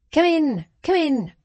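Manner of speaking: high, brusque double call; indignant call. A narrator's reading. Brass answering a knock mid-quarrel, indignantly. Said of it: "they partook of the tone in which the indignant".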